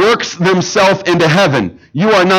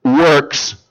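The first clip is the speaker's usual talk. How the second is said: higher, faster protest, then slowing on the boast; pleading religious teacher; 4 semitones higher than usual. Acted. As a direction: plead your record before the judge. Religious teachers pleading before God.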